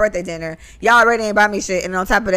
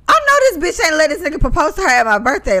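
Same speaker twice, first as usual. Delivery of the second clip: mock going off; 6 semitones higher, 3 dB louder than usual. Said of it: "she went off".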